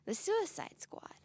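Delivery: slow, ominous whisper; hushed, drawn-out reveal. Acted. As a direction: breathe the name out slowly. Dark reveal of group's name.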